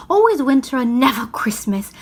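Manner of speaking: whispered, ominous; hushed whisper. Acted. Faun telling Lucy of the curse, hushed whisper. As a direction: breathe it like a dark secret.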